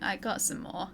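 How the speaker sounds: talking while chewing; words round a bite of food; mouth full. Real, not acted. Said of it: "Sorry for the eating sounds".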